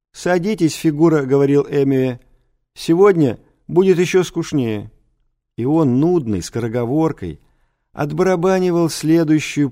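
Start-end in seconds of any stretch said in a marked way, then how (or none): 0.1-1.2 put-on higher-pitched old teacher; mumbling old teacher. A narrator's reading. Old teacher tells a pupil to sit, slightly mumbling. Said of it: "при этом мямлил и каждую фразу разбавлял". 2.7-4.9 put-on higher-pitched old teacher announcing; lightly voiced old man, chewing the words; mumbling old teacher. A narrator's reading. Old teacher promises the class a duller lesson, mildly mumbling. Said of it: "при этом мямлил и каждую фразу разбавлял".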